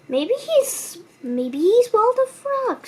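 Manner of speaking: little bird guessing; high puzzled bird. A narrator's reading. Cuckoo Bird voiced in story.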